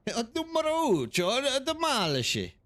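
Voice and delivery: high, hammed-up Italian accent, stretching "demolish"; laughing mock Italian accent; bad Italian accent. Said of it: "using a bad Italian accent with Spanish".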